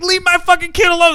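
high, angry demand; angry father. Acted. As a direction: bark it at the doctor. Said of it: "It's like".

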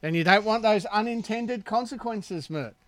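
bait him into saying it; teasing prompt. Real, not acted. Teasing Mert into swearing.

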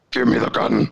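lightly mimicked masked villain; a hint of a distorted villain demand; imitated distorted voice. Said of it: "like, a distorted voice".

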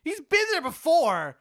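stunned, drawn-out question; shocked disbelief. Acted. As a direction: squeak it out, hammed-up amazement. Shocked at Reginald's strip-club history.

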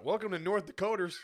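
playful greeter patter; restaurant greeter. Pretend. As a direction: welcome diners like a hammed-up host. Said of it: "that sounds like a restaurant".

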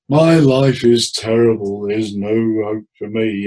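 slow, mournful demo of a gloomy client; downbeat mournful. Shown as a demonstration. Therapist demoing a depressed client, slow mournful. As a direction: drag it out heavily, slow. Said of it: "in a downbeat, mournful tone".

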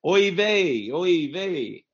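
high, loud hammed-up Jewish accent. Shown as a demonstration. Friend shows how to do the Jewish accent, high and loud. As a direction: ham up a stock Jewish accent. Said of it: "That's pretty good".

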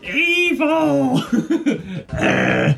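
high wailing shrieks with laughter; hammed-up terrified cries of evil; overacted death scene.

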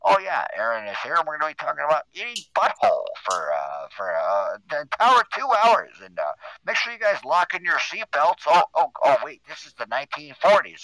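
1940s radio announcer; big showy radio host intro; old-timey radio host. Pretend. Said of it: "Old-timey radio".

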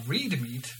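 "reed" with a drawn-out ee vowel; misread word. Real, not acted. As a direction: misread "reed" with a long ee, like the plant. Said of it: "should have been red".

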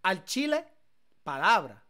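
Mexican slang. Pretend. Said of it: "What the fuck?".

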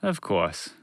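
reply evenly, unruffled; calm. Acted. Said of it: "Montgomery the Moose replied calmly".

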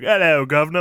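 mock British.

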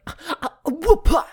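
slow, high, loud surfer drawl; surfer dude. Retold or imitated. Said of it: "that video of the surfer dude".

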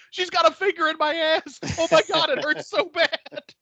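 lightly voiced squeal of mock pain; pained yelp. Acting out Jack being groped.

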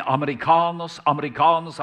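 loud street calls, sing-song; calling out. Retold or imitated. Locals calling after Westerners walking through town, loud calls. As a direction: hail the foreigners from across the street. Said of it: "så ropte de".

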